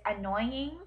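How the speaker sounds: "annoying" drawn out as a slow example. Shown as a demonstration. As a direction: show slowly how you say "annoying". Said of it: "I've always said it's".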